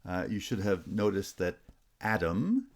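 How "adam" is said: "Adam" with the first syllable strong; first-syllable stress. Shown as a demonstration. Teacher showing stress patterns, first-syllable stress on "Adam". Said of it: "has stress on the first syllable".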